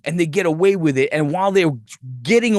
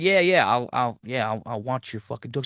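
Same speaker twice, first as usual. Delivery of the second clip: flat, reluctant agreement trailing softer; grudgingly agree, fading out; reluctant mumble; 3 semitones lower, 4 dB quieter than usual. Retold or imitated. Emily grudgingly agreeing to watch the dog, trailing off softer. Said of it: "She's like".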